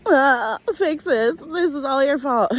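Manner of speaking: high, loud desperate plea; high panicked accusation; frantic demand. Retold or imitated. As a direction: beg him to fix it, near hysterical. Calling ex, demanding in tears.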